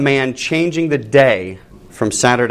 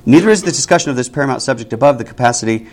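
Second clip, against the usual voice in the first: brisk run through the sentence; quicker re-reading; faster than usual. Real, not acted. Teacher rereading a confusing sentence to the class, quickened pace. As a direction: reread it faster to find the sense. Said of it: "you have to put the emphasis".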